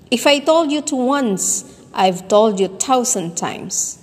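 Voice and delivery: "told" lifted in pitch at the start; emphasize "told", then settle on "thousand times"; demonstrated sentence stress. Shown as a demonstration. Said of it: "The first time through, stress".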